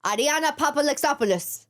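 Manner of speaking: Greek accent, name rolled out. Shown as a demonstration. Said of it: "say it with a Greek accent".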